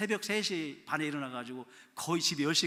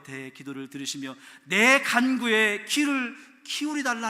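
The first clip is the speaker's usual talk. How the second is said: louder, slow pleading prayer; earnest plea; 5 semitones higher, 9 dB louder than usual. Acted. David pleading with God, slow earnest plea. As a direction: beg with an aching heart. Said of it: "다윗의 애절한 마음".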